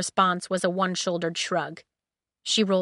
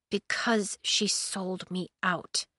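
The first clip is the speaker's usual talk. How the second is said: sneering; 6 dB quieter, slower than usual. Acted. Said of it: "she said, sneering".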